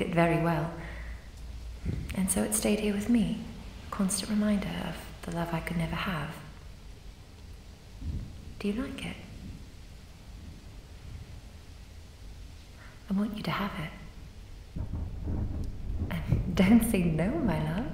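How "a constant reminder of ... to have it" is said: soft, intimate whisper, slowing at the end; tender whisper. Acted. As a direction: whisper the gift lovingly. Ghost offering locket tenderly.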